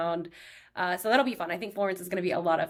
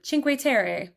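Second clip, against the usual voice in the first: put-on American accent; 4 semitones higher, slower than usual. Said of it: "the white accent".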